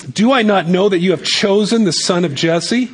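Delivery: Saul's rising, laughing outrage; rising angry challenge. Shown as a demonstration. Preacher voicing Saul's outraged question, mock angry. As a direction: read it as an indignant, rising question. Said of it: "repeats the line a second way".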